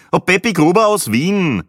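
put-on high, loud little old lady voice; old Viennese lady. Old lady from Vienna greets the group, loud and high. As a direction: chirp it out like an old Viennese woman.

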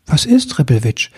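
gently worried friend; concerned question. Acted. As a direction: lean in with worry. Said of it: "fragte die Stimme besorgt".

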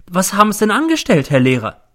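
high-pitched, appalled question; aghast landlady rounding on her lodger; horrified. A narrator's reading. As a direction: demand it in shock. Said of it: "schreit die Hausfrau und wird sehr entsetzt".

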